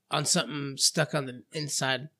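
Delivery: talking around an apple bite; mouth full. Real, not acted. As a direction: speak with food in the mouth. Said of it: "it's, like, hanging out of my mouth".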